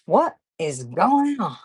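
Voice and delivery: slow, drawn-out puzzled repeat; a light imitation of Andrew's catchphrase again; imitating Andrew. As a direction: echo his line slowly, amused. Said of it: "I say, "Andrew, I don't know".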